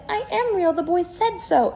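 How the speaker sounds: high, loud tearful insisting; cling to it, almost crying; near tears. Acted. Toy rabbit defending himself to the wild rabbit, near tears. And he nearly began to cry.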